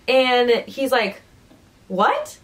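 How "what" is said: mildly startled, questioning rise; mock a stunned one-word reaction; taken aback. Alien hearing his lover is pregnant, surprised.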